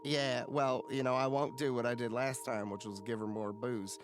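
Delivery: lightly voiced weary cook.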